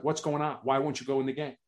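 a hushed coach asking what's wrong; gentle concern. Retold or imitated. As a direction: ease off for a crying player. Coach gently asks crying player.

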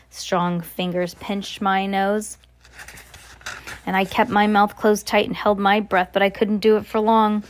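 expressive read-aloud storytelling; story narration. A narrator's reading. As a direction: read it like a children's novel.

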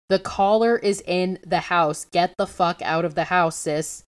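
hammed-up panic order to get out; mock-dramatic urgent command; dramatic urgent warning. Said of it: "I paraphrase that for dramatic effect".

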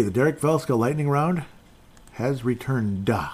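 booming preacher announcement; evangelist voice. Shown as a demonstration. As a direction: proclaim it like a revival preacher. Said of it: "I had to say it like an, uh, evangelist".

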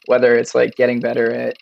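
hoarse, strained voice; losing voice. Real, not acted. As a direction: talk through a failing, hoarse voice. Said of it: "losing my voice out here".

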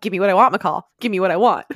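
demanding jock, at the speaker's own pitch; a touch of a pushy, loud demand; Jackson. Retold or imitated. Imitating the jock pressing his teammate, lightly demanding. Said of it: "And just Jackson, just like".

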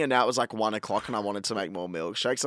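ordinary talk

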